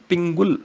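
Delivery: ਪਿੰਗੁਲ as 'pingul'; corrected 'u' vowel. Shown as a demonstration. Teacher repeating the correction, ਪਿੰਗੁਲ with 'u'. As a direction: keep the short 'u' in ਪਿੰਗੁਲ. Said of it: "ਗੱਗੇ ਨੂੰ ਔਂਕੜ ਹੈ".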